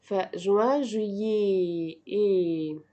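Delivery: "جويي" with a long final "é". Shown as a demonstration. Teacher demonstrating ET, "جويي" slowly stretched to a final "é". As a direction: draw out the "é" ending "جويي". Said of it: "إي تي دي بتتنطق إيه".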